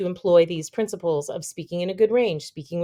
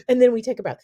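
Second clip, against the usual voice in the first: gasp for air; 4 semitones higher, 5 dB louder, much faster than usual. Shown as a demonstration.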